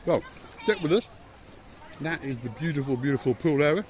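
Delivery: talking through a mouthful of cake; mouth full. Real, not acted. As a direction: speak round a bite of cake. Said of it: "I know you shouldn't eat with your mouth full".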